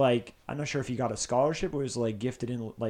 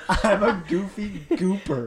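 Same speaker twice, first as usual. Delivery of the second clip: slow, higher mock British; British accent; 6 semitones higher, slower than usual. Shown as a demonstration. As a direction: draw it out in British. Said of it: "Wait, in British?".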